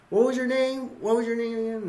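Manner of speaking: curious question. Retold or imitated. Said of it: "Dan Cain tells him".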